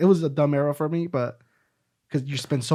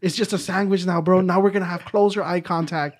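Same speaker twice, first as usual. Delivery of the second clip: laughing protest; 6 semitones higher, 5 dB louder than usual. Retold or imitated. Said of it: "And I'm like".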